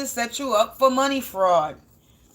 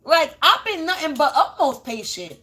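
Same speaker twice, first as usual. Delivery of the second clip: higher mock exasperation at being told to wait; lightly played fed-up self, pitch raised; half-laughing at God, how much more; fed-up disbelief; 6 semitones higher than usual. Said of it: "I be like".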